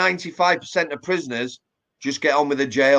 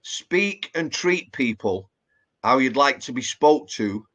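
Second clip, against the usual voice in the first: nan's saying; 2 semitones lower, slower than usual. Retold or imitated. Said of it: "what she used to say was".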